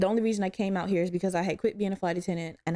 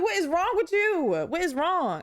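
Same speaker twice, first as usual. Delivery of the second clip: high, exasperated mock wail; retold breakdown; 9 semitones higher, slower than usual. Host retelling questioning themselves mid-breakdown, mock-distraught and high. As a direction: plead in a higher, put-on upset voice. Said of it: "I just broke the fuck down".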